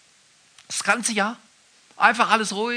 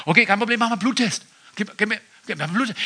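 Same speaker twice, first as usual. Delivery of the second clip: policeman voice; 6 semitones higher, 4 dB louder, faster than usual. Retold or imitated. Cop voiced in joke.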